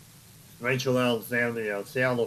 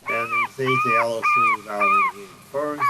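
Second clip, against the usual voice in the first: excited race call; 7 dB louder than usual. Acted.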